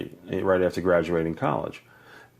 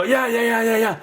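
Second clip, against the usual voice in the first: grudging yeahs; 14 semitones higher, 3 dB louder than usual. Retold or imitated. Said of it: "And I go".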